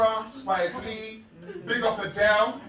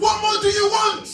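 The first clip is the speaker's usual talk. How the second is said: a higher, pointed demand; fired-up shout; 6 semitones higher than usual. Real, not acted. Speaker challenging the young audience, indignant shout.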